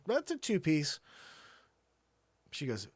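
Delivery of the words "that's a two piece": 1 deadpan reveal. Retold or imitated. Husband reveals missing couch piece.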